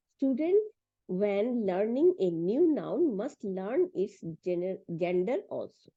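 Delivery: slow, word by word English reading; slow textbook reading. Shown as a demonstration. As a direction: read the book aloud to the class slowly. Reads English textbook passage. (ধীরে ধীরে বই থেকে পড়া)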